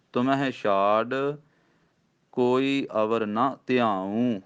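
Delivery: slow recitation, pause after ਛਾੜ; teacher models the pause; pause demo. Shown as a demonstration. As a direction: recite ਤੁਮ ਹੈ ਛਾੜ, break, then ਕੋਈ ਅਵਰ ਨਾ ਧਿਆਊ. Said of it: "ਇੱਥੇ ਵਿਸਰਾਮ".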